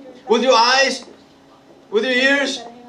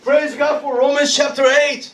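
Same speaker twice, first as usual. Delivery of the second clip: proclaim; 4 semitones higher than usual. Shown as a demonstration. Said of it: "Come on, somebody".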